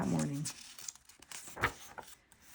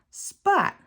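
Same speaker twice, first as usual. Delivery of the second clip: much higher, sharp angry shout; king shouts at the whale who bumped him; 12 semitones higher than usual. A narrator's reading. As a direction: yell the name in fury. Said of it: "the king shouted at the baby whale".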